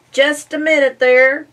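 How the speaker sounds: high, loud call after them. Acted. Pig calling after the leaving family, high loud. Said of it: "the pig called out".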